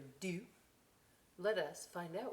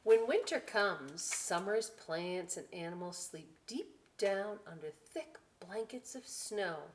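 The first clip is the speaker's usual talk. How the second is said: story reading; 3 dB louder than usual. A narrator's reading. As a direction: savour each line for the kids. Reading book.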